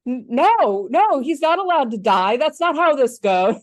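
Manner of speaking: put-on loud, high indignant kid; childlike protest. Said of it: "childhood moment of like".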